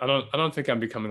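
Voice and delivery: normal talking voice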